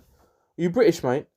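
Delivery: half-hearted mock British accent, drawn out; bad British accent. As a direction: have a poor go at sounding British. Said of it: "I can't do a British accent".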